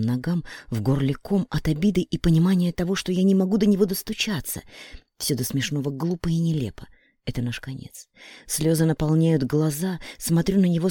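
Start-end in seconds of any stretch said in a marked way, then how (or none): none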